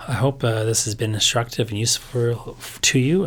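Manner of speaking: worn-out, strained voice; tired voice after long lectures; voice giving out. Real, not acted. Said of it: "I'm sorry for my voice giving out so much".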